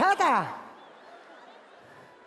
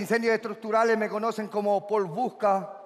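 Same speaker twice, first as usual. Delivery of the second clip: low, even seducer; low heartthrob patter; suave galán introduction; 6 semitones lower than usual. Acted. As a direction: list your nickname deep and smooth.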